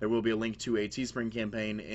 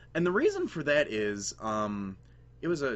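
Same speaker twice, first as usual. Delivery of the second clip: breaking voice, cracking mid-word; 3 semitones higher, 4 dB louder than usual. A drafter explains why they picked base Sableye, voice cracking. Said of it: "Did my voice crack?".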